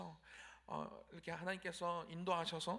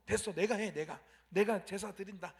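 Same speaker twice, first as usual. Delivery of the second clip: impatient outburst; 5 dB louder than usual. Retold or imitated. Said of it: "그의 조급한 마음으로".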